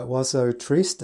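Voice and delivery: slow, English-tinged French pronunciation; awful French accent. Real, not acted. Piano teacher apologising for her French, awful French accent. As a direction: attempt the French title carefully. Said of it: "Forgive My Awful French Accent".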